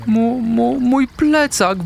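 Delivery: high, slow, stammering dismay; stunned half-whisper. A narrator's reading. Little cat discovering her backpack is gone, stammering in high dismay. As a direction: stumble over the words, high and slow. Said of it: "wyszeptała".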